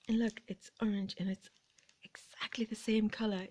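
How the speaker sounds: soft awed whisper. Real, not acted. Showing viewers the matching cactus, soft awed whisper. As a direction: whisper it in quiet wonder.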